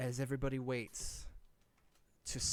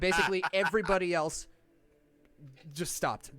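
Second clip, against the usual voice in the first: laughing; 5 semitones higher, 9 dB louder than usual. Real, not acted. GM laughing after joke.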